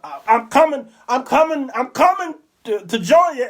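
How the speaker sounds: lightly voiced clutching the heart; a hint of mock heart attack; Fred Sanford heart attack. Preacher doing the Fred Sanford heart attack, lightly voiced. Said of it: "one of those Fred Sanford".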